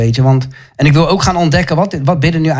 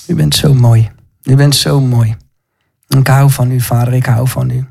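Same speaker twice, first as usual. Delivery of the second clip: intimate, devoted prayer; tender prayer. Real, not acted. Preacher declaring love to God in prayer.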